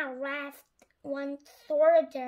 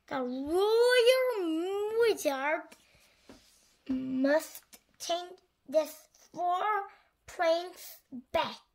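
slow, higher royal queen voice; 3 semitones higher, much slower than usual. Acted. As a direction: speak slowly like a grand queen. Queen speaks in character.

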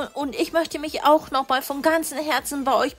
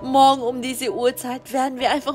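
smug villain with a lightly voiced chuckle; gloating villain. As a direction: gloat over the easy ransom. Kidnapper gloats to partner.

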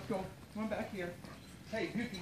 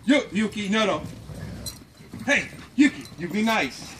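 firm, louder warning to the dog; steady voice to growling dog; 3 semitones higher, 5 dB louder than usual. Real, not acted. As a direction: warn the dog to be nice.

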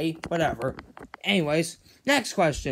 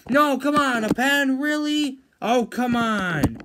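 outraged disbelief; 6 semitones higher than usual. Acted. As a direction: complain in disbelief. Disappointed by the prize.

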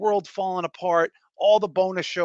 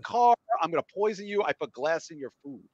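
higher-pitched hammed-up breakup rant; mock threats; 5 semitones higher than usual. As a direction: play a vengeful ex, voice pitched up. Mocking friend's dramatic breakups, acting threats.

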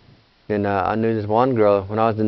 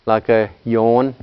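slow demonstration; much slower than usual. Shown as a demonstration. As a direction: yawn drawn out slowly. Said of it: "we drop the vowel sound at the end".

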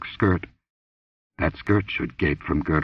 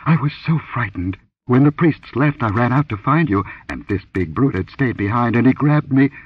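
frightened woman; 5 semitones higher than usual. Acted. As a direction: rush through the fright. Frightened woman explains attack.

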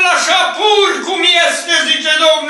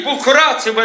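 rejoice said again, lower with a falling close; lower repeat; 3 semitones lower, faster than usual. Real, not acted. Preacher repeating rejoice to the congregation, lower and falling. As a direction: drop the pitch and settle it the second time. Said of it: "și iară zic".

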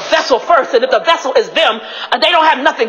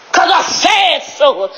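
yelling; 3 semitones higher, much slower than usual. Real, not acted. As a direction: yell it slowly, every word stretched. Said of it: "me yelling".

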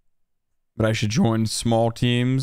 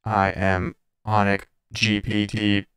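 robot voice. Pretend. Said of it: "Software update inbound".

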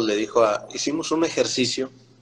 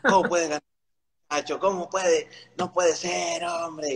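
incredulous higher mock voice; teasing disbelief, pitched up; mocking teammates; 6 semitones higher than usual. Compañeros se burlan. (burla incrédula imitada, más aguda)

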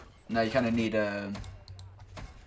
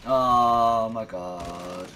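very slow, louder exclamation; drawn-out oh my god; 5 dB louder, much slower than usual. Real, not acted. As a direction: stretch it out in disbelief. Reacting to game event.

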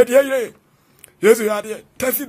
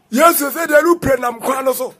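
shout; 2 semitones higher than usual. Real, not acted. Shout over music.

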